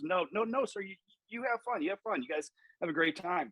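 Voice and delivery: high, placating old man, hammed-up; mock backpedaling starter. Old starter backing down to the coach, hammed-up placating voice. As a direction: backpedal nervously, all smiles.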